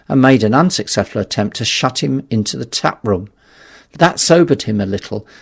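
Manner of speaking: usual speaking voice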